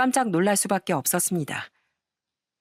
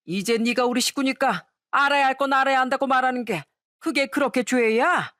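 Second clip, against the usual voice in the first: put-on drunk father-in-law; 3 semitones higher than usual. Drunk father-in-law protests as his son leaves, mildly indignant. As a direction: argue like a lightly drunk elder. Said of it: "만취한 시부가 하는 얘기에".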